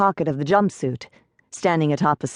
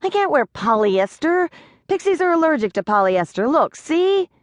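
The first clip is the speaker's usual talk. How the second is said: high, frantic little pixie; a tiny panicked pixie, much higher; 10 semitones higher than usual. A narrator's reading. Pixie panicking to Rachel about his clothes, high and frantic.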